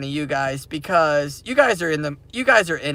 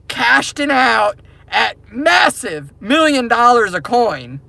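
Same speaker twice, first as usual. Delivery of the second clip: excited shout; 3 semitones higher, slower than usual. Real, not acted. Triumphant vision of future riches.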